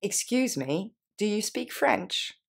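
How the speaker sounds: slow, careful model phrase for learners; slowly. Shown as a demonstration. Teacher slowing down so beginners can repeat. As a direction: spell out each word slowly. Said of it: "On reprend lentement".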